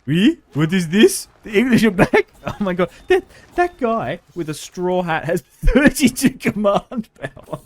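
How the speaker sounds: put-on high, loud surprised French-accented voice; mock French accent. French noble shocked the English are back, loud mock French. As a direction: play a startled French noble. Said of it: "where all these accents are coming from".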